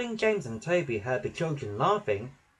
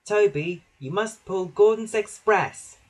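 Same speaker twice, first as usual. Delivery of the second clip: Percy voice; 7 semitones higher, 5 dB louder than usual. A narrator's reading. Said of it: "he told him".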